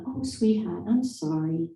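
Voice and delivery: lightly imitated Boston accent, starting high; a sympathetic Boston clerk, imitated; retold apology with a touch of Boston accent. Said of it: "in her wonderful Boston accent".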